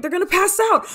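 high, loud burst of panic; panicked alarm. Acted. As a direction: cry out as someone starts to faint. Sees friend about to faint.

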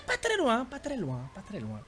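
de plus en plus bas. Acted. Repeats, voice sinks away.

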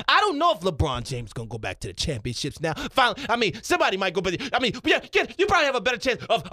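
lightly hammed-up pundit backpedaling; Stephen A Smith. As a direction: argue it emphatically, then turn mock-sincere. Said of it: "Stephen A Smith".

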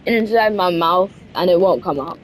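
put-on voice. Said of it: "I'm talking like this".

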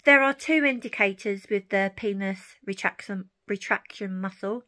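speaking without dentures in; toothless. Real, not acted. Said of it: "I haven't got my teeth in this morning".

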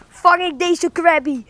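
shivering from cold; teeth-chattering cold voice. Real, not acted.

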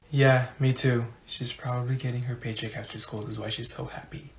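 low, very soft gossip; muttered aside. Acted. Classmate agreeing about the happy teacher, low hushed mutter.

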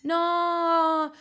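sharp loud no, high and loud; sudden no. Real, not acted. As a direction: cut yourself off with a loud no. Sudden outburst at own complaint. (no secco e forte)

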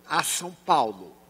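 "a" set apart before "São Paulo"; careful, deliberate preposition "a"; stress on A. Retold or imitated. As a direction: say "a" as its own careful word. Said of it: "Coloquei a frase correta".

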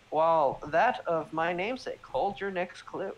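a lightly voiced eerie god; haunting voice. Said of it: "the same eerie voice whispers down the hall".

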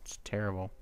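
whispered aside; sly whispered comment. Real, not acted. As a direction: breathe it out, unvoiced.

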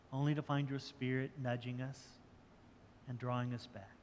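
prayer. Acted. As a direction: pray sincerely for the congregation. Pastor leads closing prayer.

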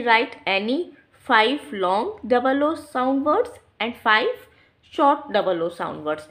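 each word spaced out, very slow; a teacher slowly dictating homework; slow dictation. Shown as a demonstration. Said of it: "dictating the task slowly".

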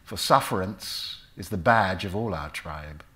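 lightly sarcastic Shylock recital. Acted. Actor recites Shylock's speech from memory, with mild sarcasm. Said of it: "I remember the sarcasm of the speech".

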